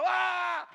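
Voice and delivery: loud, high, drawn-out "aah" yell; sudden full-voiced roar of a yell; shouted scream. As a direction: scream it out at an animal attacking you. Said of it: "yo le grito y le".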